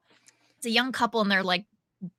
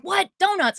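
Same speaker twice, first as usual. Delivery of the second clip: higher-pitched mock astonishment; incredulous retold question, pitched up; imitated surprise; 8 semitones higher, 4 dB louder than usual. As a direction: echo it back in disbelief. Heckler astonished to hear of donuts.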